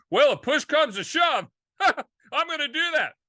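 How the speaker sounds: high, loud, laughing take on the phrase; hammed-up exclaim with a chuckle; excited mock quote. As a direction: blurt it out with a laugh.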